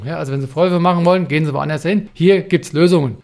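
sehr direktiv. Pretend. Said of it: "sehr direktiv vorgehen".

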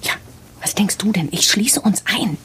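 high, husky, alarmed reply. Acted. Frightened woman locking them in, high and alarmed.

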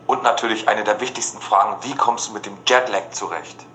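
Badezimmer-Hall; hallig im Bad. Real, not acted. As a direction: spricht mit Hall im Badezimmer. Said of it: "ich bin gerade im Bad". (Stimme hallt im Badezimmer)

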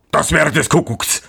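high character voice, amazed; astonished exclamation. A narrator's reading. Miller hears of a hidden roast, exclaiming in amazement. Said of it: "rief der Müller".

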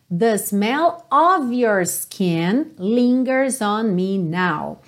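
slow model sentence, "of" said as "ov"; OF with a V sound. Shown as a demonstration. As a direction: draw it out and voice the f of "of" as v. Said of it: "lembra desse of".

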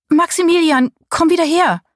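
hoch und etwas lauter, lockend gerufen; gurrend rufen. Acted. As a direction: den Namen verführerisch rufen. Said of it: "So außerordentlich gurrend und lüstern". (Susanne ruft ihren Liebhaber lockend und gurrend zurück)

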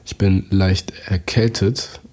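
talking right after a sip of drink; while sipping a drink. Real, not acted. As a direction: speak between sips of tea. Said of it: "Ich muss mal kurz einen Schluck trinken".

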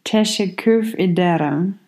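teşekkür ederim said slowly and carefully, teşekkür rising; slow careful copy of teşekkür ederim; learner repeating. Shown as a demonstration. Learner carefully repeats Turkish thank you after teacher. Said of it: "let's start with thank you".

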